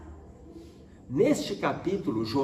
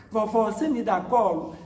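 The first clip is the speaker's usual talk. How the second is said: lightly voiced little girl, higher; pleading child; 6 semitones higher than usual. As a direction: imitate a child asking grandma for a cuddle. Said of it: "abraçou a perna dela e falou assim". (imitando de leve criança pedindo colo)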